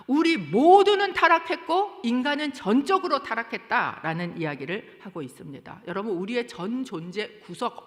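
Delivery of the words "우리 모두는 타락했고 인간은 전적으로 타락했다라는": louder and higher proclamation; forceful preaching. Acted. Preacher proclaims total depravity.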